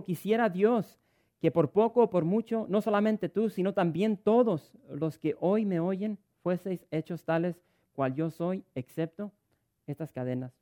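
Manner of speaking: Pablo pleading, loud and high, slowing down; Pablo's plea to King Agripa, preached loud and high; impassioned preaching. Acted. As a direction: preach it at full force.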